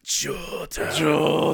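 slow stretched villain call; dramatic drawn-out shout. Retold or imitated. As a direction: call the name out slowly. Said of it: "and he goes".

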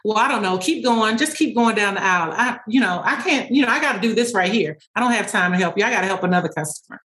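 quick, offhand brush-off from a busy worker; lightly acted dismissive store employee. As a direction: hurry the customer away, too busy to help. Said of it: "The more I was dismissive".

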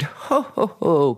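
playful ho-ho-ho; mock merry ho-ho. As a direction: fake a jolly belly laugh. Mock merry Santa-style laugh.

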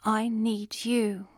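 Jezzy slowly repeats the weak man's words; echoing Jezzy. A narrator's reading. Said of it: "Jezzy repeated".

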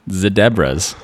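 "Zedebras" begun as zed. Shown as a demonstration. Host pondering the British joke, "Zedebras" starting with zed. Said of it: "Maybe they do".

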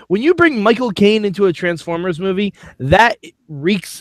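lightly put-on British accent. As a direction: argue it in a mock English accent. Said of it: "won me over with the accent".

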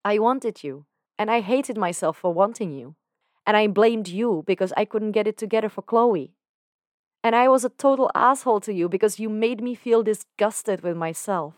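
a hint of Dan, opening up; Dan confessing. Dan confessing his teenage crush to Lucifer, lightly voiced.

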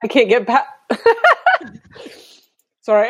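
real emotion breaking into a teary laugh; words caught as she chokes up; choking up. Real, not acted. Host to guest on the painful part, choked up. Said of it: "I cry".

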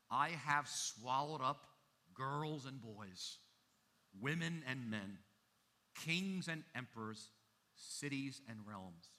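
calm lion's voice. Acted. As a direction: let the lion state it, neither boasting nor sorry. Lion speaking in Narnia story.

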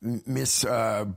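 folksy frontier mayor, indignant; old prospector. Acted. Townsman voice continues.

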